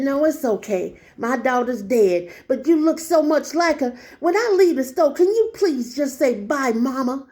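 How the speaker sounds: lightly voiced pleading old lady; imitated elderly woman. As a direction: gently mimic an old woman's plea. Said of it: "this is how she talked".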